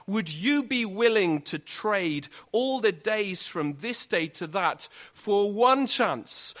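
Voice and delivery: a preacher lightly hamming up a war speech; rousing Braveheart speech. Retold or imitated. Preacher quoting William Wallace to the crowd, slow and rousing. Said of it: "here's the speech".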